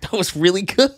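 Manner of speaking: light imitation of an impressed woman; imitating the woman. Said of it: "And the woman was like".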